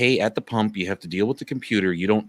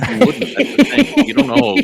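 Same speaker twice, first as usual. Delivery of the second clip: squeaky high insistence; 7 dB louder than usual. Acted. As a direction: voice jumps way up, loud and teasing.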